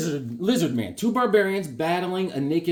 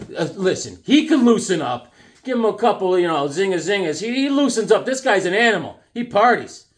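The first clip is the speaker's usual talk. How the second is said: higher, louder, glad-handing greeting; schmoozing host; 4 semitones higher, 4 dB louder than usual. Pretend. Greeting the Sonia figure from the package, cheesy schmoozing. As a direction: flatter her like a cheesy uncle.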